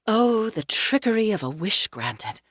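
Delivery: lightly theatrical lament, pitched a little high; a mild stagey sigh of regret; as if quoting. A narrator's reading. Julia laments the longed-for summer, lightly theatrical, as if quoting. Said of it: "like she was quoting from something".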